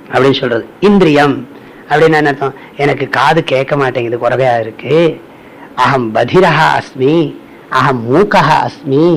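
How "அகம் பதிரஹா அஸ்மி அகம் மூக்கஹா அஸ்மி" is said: slow recitation. Shown as a demonstration. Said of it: "recites the scripture line".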